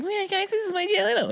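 very high, squeaky mock celebrity impression; Jay Leno. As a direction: botch the impression in a high-pitched whine. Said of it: "here's my Jay Leno".

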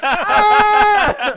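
loud, high mock shriek of shock; hammed-up startled scream. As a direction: shriek like you've just been caught. Mock shock at being called jerk.

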